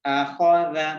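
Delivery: आखा दा with a full, heavy खा and a light, soft दा; heavy kha, soft dal. Shown as a demonstration. Teacher demonstrates heavy खा and soft दा for students. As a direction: make the खा in आखा thick and keep the दा gentle. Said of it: "दाल को नरमी के साथ पढ़ना है और खा ... इसको हमने मोटा पढ़ना है".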